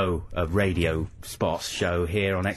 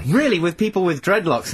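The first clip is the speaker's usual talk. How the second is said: surprised; 8 semitones higher than usual. Real, not acted. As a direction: leap up in disbelief. Surprised at party description.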